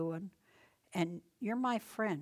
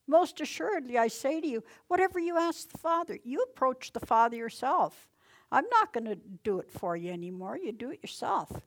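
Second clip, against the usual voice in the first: much louder, higher start, urgent; preacher voicing Jesus loudly; emphatic Jesus; 4 semitones higher, 9 dB louder than usual. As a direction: proclaim it like Jesus insisting.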